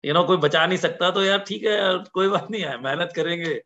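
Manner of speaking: typical Hindi style. Retold or imitated. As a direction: shrug it off in easygoing Hindi. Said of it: "typical Hindi style".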